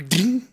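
vocal twang of a blade; imitated impact. Storyteller showing the axe hitting the table, imitated ding. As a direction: make the axe ring as it sticks.

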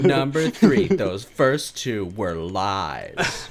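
mock-apologetic sarcasm; epic snarker. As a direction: draw out the snark, smug and deliberate. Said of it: "he's an epic snarker and fluent in sarcasm".

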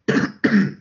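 rough throat clear. Real, not acted. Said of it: "sorry, I'm choking all over the place here".

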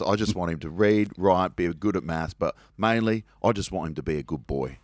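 imitating an earnest Cockney dad; lightly put-on Cockney father; bad Cockney accent. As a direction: plead a son's case in rough Cockney. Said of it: "my bad Cockney accent".

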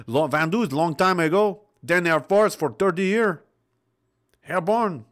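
put-on rough, improvised French accent. Host retrying the old French veteran's words, French accent. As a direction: have a clumsy go at a French accent. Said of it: "how to do a French accent".

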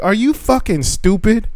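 high, slow incredulous quote; angry disbelief. Retold or imitated. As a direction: re-enact an indignant challenge. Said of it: "I got so angry".

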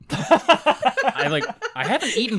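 giggling through the words; breaking up with laughter; laughing. Real, not acted. Laughs at own burping.

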